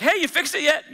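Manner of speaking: partner checking in. Retold or imitated.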